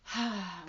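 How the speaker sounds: short open-mouthed sigh; sigh breath. Shown as a demonstration. Teacher introducing sigh breaths to the class, short sigh. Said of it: "let out several sigh breaths".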